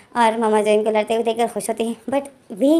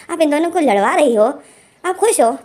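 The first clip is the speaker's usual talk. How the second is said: rising higher and louder in disbelief; can't believe what mom is doing; shocked disbelief; 4 semitones higher, 3 dB louder than usual. Retold or imitated. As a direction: son confronting mother, higher, louder and shocked. Son confronts mother in disbelief.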